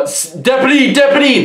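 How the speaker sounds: high, urgent mock scream; retold screaming. Inmate calling the deputy from outside a cell, mock screaming. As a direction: call out high for help, imitating a screamer. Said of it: "you hear a guy screaming".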